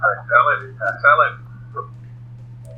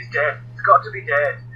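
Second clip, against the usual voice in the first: put-on light Scottish accent; 5 semitones higher than usual. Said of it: "I did a bit of a Scottish accent there".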